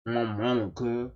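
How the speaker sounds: imitating fake hood thugs; lightly put-on thug talk; mock hood-thug talk. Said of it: "they talk like this".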